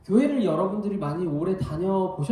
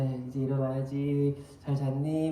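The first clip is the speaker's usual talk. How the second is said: gentle wake-up; 2 semitones lower than usual. Retold or imitated. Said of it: "되게 부드럽게 깨웁니다".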